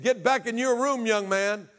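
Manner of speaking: high, loud imitation of a stern stepfather; retold angry order. Stepfather orders boy to his room, acted angry shout.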